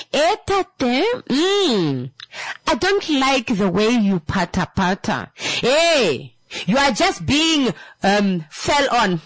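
high, teasing complaint; mock complaining partner. Partner voicing complaints about bad sex, high and teasing. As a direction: whine like a nagging partner.

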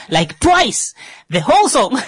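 high, laughing disbelief. Real, not acted. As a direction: laugh your way through it. Laughing about the song.

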